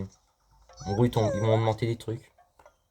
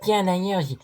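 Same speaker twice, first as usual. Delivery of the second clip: 1 character voice; 4 semitones higher, 3 dB louder than usual. Pretend. Voicing a game character.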